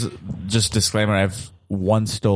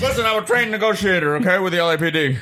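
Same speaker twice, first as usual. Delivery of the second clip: trained negotiator voice; 8 semitones higher than usual. Acted. Negotiator character in improv.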